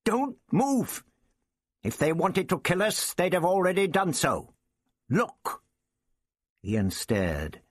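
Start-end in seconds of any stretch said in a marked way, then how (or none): 0.0-5.6 high, urgent, desperate shouting. A narrator's reading. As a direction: cry out in desperation. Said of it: "the Doctor shouted desperately".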